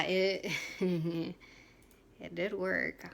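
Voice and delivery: slow laugh through the words; chuckling as she admits it worked. Real, not acted.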